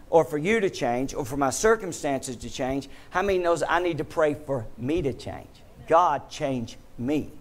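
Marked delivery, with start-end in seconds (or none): 5.9-7.3 slow, earnest prayer; prayerful plea. Shown as a demonstration. Preacher modeling a humble prayer, slow and earnest. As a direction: pray it slowly from the heart.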